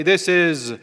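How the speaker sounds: dramatic radio sign-off with a weighty pause; pause, then deliver the famous tagline; imitating a broadcaster's signature line; Paul Harvey catchphrase. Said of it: "as Paul Harvey used to say".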